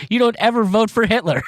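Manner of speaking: high-pitched, indignant exclamation; incredulous outburst. Real, not acted. Reacting to voting for Hitler.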